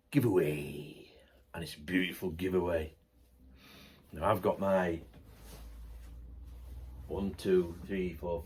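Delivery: soft unvoiced whisper. Real, not acted. Vlogger whispering news of the author's giveaway. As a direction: whisper it like a secret treat.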